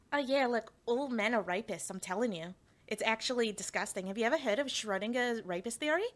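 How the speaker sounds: lightly put-on Australian accent. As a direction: attempt an Australian accent, as an opinionated radical feminist. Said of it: "that's my Australian accent".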